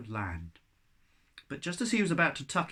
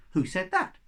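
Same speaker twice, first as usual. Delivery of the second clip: "Who said that?" said fuller and louder; echo louder; 5 semitones higher, 4 dB louder than usual. Acted. The echo snow repeats Shen's words, quite loudly. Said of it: "said the snow quite loudly".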